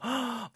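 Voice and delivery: sharp high gasp of delight; happy gasp. Shown as a demonstration. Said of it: "very up and exciting and very happy". (기쁜 놀람의 숨 들이쉬기)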